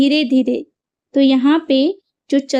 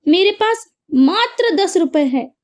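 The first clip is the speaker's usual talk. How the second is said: मात्र lifted and pressed hard; stress on मात्र; 5 semitones higher than usual. Shown as a demonstration. Teacher demonstrating emphasis on मात्र, stressed. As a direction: hit मात्र to show only ten rupees. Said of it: "तो मात्र शब्द पर हमने बल दिया".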